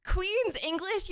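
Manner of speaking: slow, careful Queen's English, every syllable crisp; posh Queen's English. Shown as a demonstration. Showing chat how Queen's English sounds, slow and proper. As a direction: savour each syllable in a posh British accent. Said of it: "you pronounce all the syllables clearer".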